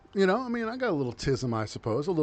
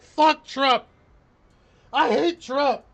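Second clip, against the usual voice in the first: mock headline; 4 dB louder than usual. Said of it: "the headline was probably something like".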